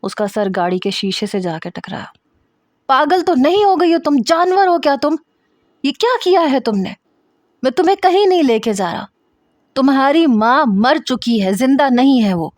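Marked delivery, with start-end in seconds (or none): 2.9-12.5 high, loud angry yelling; husband yelling at his wife after she claws him; angry shout. Acted. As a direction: shove her off and shout.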